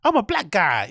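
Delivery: a mild mocking imitation of the inflection; a hint of a hammed-up stereotype voice; hacky black voice.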